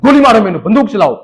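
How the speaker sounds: loud, angry demand; angry dare. Retold or imitated. Photographer angrily telling the father to shoot. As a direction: angrily dare him to fire. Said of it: "ऐसे गुस्से से कह रहा है".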